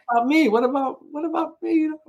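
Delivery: mock whine. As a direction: whine like a left-out kid, climbing in pitch. Jealous whine about daughter's role.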